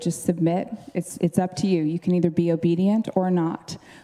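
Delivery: ordinary delivery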